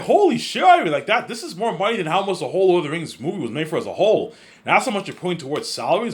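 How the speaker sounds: high, loud amazed exclamation; shocked Peter Jackson. Retold or imitated. Peter reacts to Ivan's huge budget, high mock amazement. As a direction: squeal it out in mock astonishment. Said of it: "He's like".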